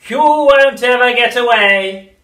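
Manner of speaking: very slow, throaty, menacing crone; throaty witch whisper. A narrator's reading. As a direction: lean in and menace. Grandma menacing.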